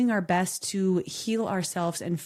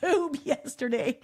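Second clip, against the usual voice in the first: higher, slow, laughing through the words; 6 semitones higher, slower than usual. Retold or imitated. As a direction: laugh while you tell it. Retelling the needle to dad.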